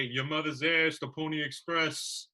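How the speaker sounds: a hint of a brash Brooklyn comic; Vic DiBitetto impression. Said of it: "or as Vic DiBitetto would say".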